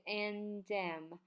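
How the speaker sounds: "and damn" joined into one sound; linked words. Shown as a demonstration. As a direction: run "and" straight into "damn". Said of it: "这个and damn也是连在一起". (连读“and damn”)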